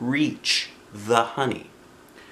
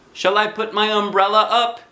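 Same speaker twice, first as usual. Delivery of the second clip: lightly voiced boy; 11 semitones higher, 3 dB louder than usual. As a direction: answer like a gentle little boy. Christopher voiced.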